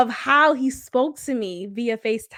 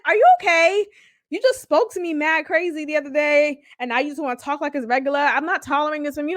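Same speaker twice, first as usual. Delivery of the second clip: scolding; 2 semitones higher, faster than usual. Retold or imitated. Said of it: "talking to him like he's a fucking child".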